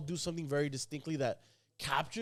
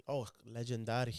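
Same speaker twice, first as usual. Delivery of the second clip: lower-pitched Hispanic pronunciation, legendary as "lejendádi"; Hispanic accent; 5 semitones lower, 6 dB quieter than usual. Shown as a demonstration. Showing co-hosts the album title, in a Hispanic accent. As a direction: say it with a Spanish accent. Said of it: "in the Hispanic acc-, accent".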